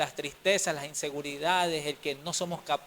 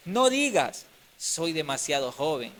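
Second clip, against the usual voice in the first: firm divine voice; 4 dB louder, slower than usual. Acted. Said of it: "le dice".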